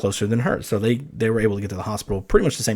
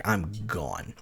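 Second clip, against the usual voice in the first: ordinary delivery, nothing marked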